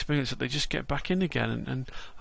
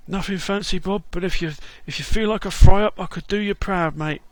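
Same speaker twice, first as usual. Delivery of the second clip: lightly voiced cheery London geezer, a bit higher; London Bob; 5 semitones higher, 6 dB louder than usual. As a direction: greet him like a chirpy London mate.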